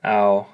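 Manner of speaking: ow drawn out slowly, like in plow; slow, stretched ow; Hmong AU sound. Shown as a demonstration. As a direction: hold the ow as in plow. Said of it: "like the English word plow".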